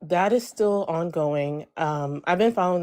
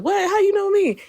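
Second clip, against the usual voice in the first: high, loud startled question; mock startled friend asking how; retold surprise; 5 dB louder than usual. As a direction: act her disbelief, pitched up high.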